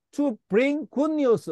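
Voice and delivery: To bring good news, each word spaced out very slowly; slow read-aloud for repeating. Shown as a demonstration. Teacher reading slowly to the class for them to repeat. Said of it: "따라해 봅시다".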